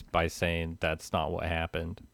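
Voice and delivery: dry, sober correction; dead serious. Real, not acted. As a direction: answer in complete earnest, no bounce. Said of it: "I want to respond to you dead serious".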